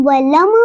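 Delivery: वलम opened at the end, "walama"; wrong bounced M. Shown as a demonstration. Teacher quotes the form to correct, bounced वलम. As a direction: release the M of वलम into a vowel. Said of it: "वलम नहीं पढ़ेंगे".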